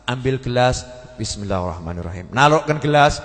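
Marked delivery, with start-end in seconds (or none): 1.2-2.3 lower, much softer bismillah; pious wife softly blessing each act; soft devout murmur. Retold or imitated. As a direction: murmur it reverently. Pious woman's constant bismillah.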